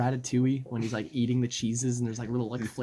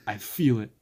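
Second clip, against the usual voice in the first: tripping voice; 4 dB louder than usual. Retold or imitated. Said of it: "like that".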